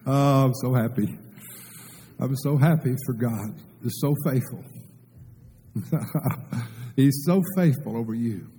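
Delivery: speaking through happy tears; tearful praise; teary joy. Real, not acted. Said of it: "I know I'm crying right now".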